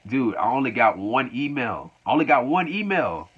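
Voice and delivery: mock annoyed. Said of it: "he gets annoyed".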